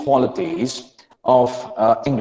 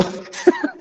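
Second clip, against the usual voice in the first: short high-pitched laugh; amused laugh; 3 dB quieter than usual. Real, not acted. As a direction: break into a high giggle at your own demo. Amused at own clumsy imitation.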